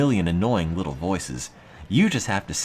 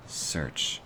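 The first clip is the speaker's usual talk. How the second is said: murmur; 5 semitones lower, 8 dB quieter than usual. Real, not acted.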